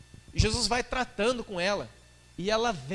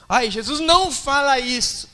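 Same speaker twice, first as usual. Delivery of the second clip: hurt whine; 6 semitones higher, 9 dB louder than usual. Acted. Woman hurt by being called a dog, loud whining plea. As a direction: protest like your feelings are hurt.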